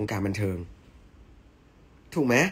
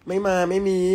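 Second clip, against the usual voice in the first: louder, higher retake; 7 semitones higher, 6 dB louder than usual. Real, not acted. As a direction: repeat it higher and louder, excited. Re-reading a viewer comment. (พูดซ้ำเสียงสูงและดังขึ้น)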